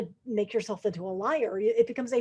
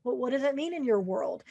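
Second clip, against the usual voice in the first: softer, unhurried and calm; calm question; 2 semitones higher, 5 dB quieter than usual. Shown as a demonstration. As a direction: ask it gently, no pressure. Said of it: "take a deep breath and very calmly say".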